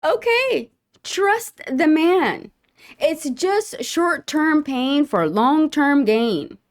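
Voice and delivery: parroting them with a sneer; mocking. A mocking vlogger parrots politicians' empty reassurance.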